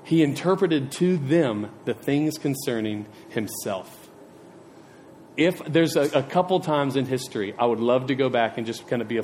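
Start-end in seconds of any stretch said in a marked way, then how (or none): 0.0-4.1 slow, measured reading of the verse; slow scripture reading. Shown as a demonstration. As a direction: read it slowly and reverently. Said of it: "And then it says".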